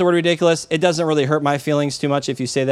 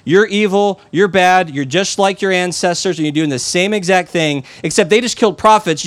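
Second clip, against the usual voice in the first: accusing rebuke; 2 semitones higher than usual. Retold or imitated. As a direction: throw the charge at them, slightly raised. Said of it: "He's basically like".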